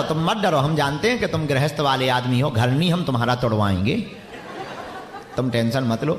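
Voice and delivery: low-pitched reassurance; reassuring. Real, not acted. Preacher tells a worried householder not to fear, reassuring. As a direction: drop the voice low to calm him.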